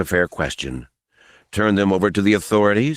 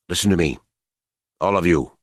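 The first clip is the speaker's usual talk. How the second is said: quiet authority; faster than usual. Acted. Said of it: "The simple authority in his voice".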